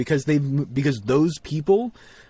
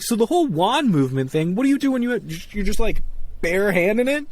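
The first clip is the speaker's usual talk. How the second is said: exasperated; 8 semitones higher than usual. Retold or imitated. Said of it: "I'm like".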